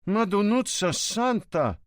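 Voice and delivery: a hint of a shocked Sicilian cop; stunned oath. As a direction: let the name of the saint fall out in dismay. Fazio stunned at the address.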